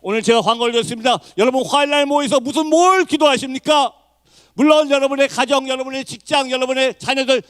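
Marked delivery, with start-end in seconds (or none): 1.4-7.4 high, insistent challenge to the congregation; preaching at full force. Real, not acted. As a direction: press the listeners with raised fervour. (힘주어 도전하는 설교)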